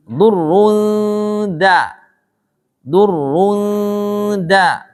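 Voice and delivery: "Durrun da" with a long held nasal, then a light DA; slow chanted "Durrun da"; thin dal. Shown as a demonstration. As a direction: stretch the n of "Durrun", release into a thin "da". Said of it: "Tipis dal ya".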